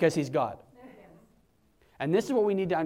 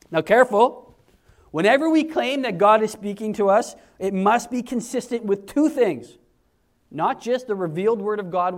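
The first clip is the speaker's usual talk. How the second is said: stern warning; 3 semitones higher, 5 dB louder than usual. Real, not acted. Preacher warning the congregation, loud and deliberate.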